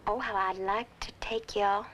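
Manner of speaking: breathy whispered longing; a wistful whisper to herself. Acted. Wife longing aloud, to herself.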